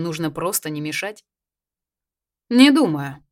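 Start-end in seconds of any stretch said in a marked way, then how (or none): 2.5-3.2 a tense, clipped reply, sharply raised; tense doubt, pitched high; strained. A narrator's reading. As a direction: force the words out tightly. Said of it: "натянуто произнёс Давыдов".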